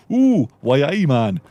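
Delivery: hammed-up London accent from a hopeless mimic; mock London accent. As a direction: belt out a cringeworthy London accent. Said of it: "I do a really amazing London accent".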